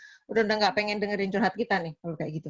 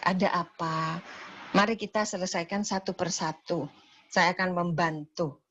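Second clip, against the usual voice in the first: reassuring calm. Shown as a demonstration. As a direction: soothe the patient, promise safety. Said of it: "yakinkan bahwa pasien berada di tempat aman".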